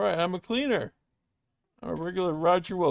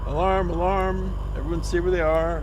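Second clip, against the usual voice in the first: raised alarm call; 3 semitones higher than usual. Acted. Porter raising hotel alarm.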